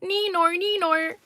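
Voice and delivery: high Australian "Neenor, Neenor"; Australian accent. Pretend. Greeting the Neenor super chat in an Australian accent. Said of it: "I have to say it with an Australian accent".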